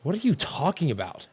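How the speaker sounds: high-pitched incredulous irritation, acted out; retold ticked-off. Ticked-off fan answering a wrong claim, mock exasperated. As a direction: replay mild exasperated disbelief. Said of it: "I'm already ticked off".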